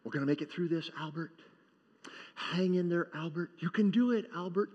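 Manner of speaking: steady and gentle through the chaos; calm reassurance. Retold or imitated. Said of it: "he just keeps calmly saying".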